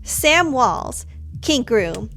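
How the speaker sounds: animated reading of a diary entry; expressive storytelling without an accent; journal read-aloud. Acted. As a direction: read it out with lively, punchy emphasis. Reads character's journal aloud.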